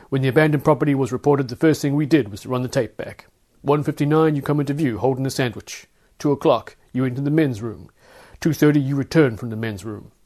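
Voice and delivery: a lightly voiced stern guard laying out the evidence. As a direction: Linebacker recounts the security tape to the suspect, a touch stern. Linebacker recites the tape.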